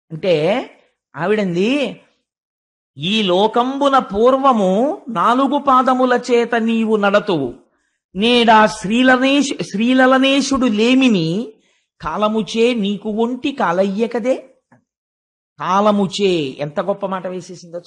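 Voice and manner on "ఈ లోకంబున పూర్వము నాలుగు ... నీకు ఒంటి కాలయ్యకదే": slow, drawn-out chanting of a Telugu verse; poem recitation. Acted. The earth answers the bull in verse, slow chanted recitation. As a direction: intone each line slowly like a padyam.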